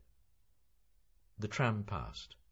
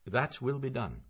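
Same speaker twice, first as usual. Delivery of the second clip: firm; 8 semitones higher, 7 dB louder than usual. Acted. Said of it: "Mister Bloom answered firmly".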